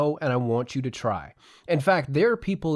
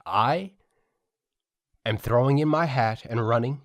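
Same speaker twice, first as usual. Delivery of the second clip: lightly pompous campaign declaration; a hint of a politician on a podium; mock announcement. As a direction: announce your candidacy with mock grandeur. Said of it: "the announcement that I wanna make".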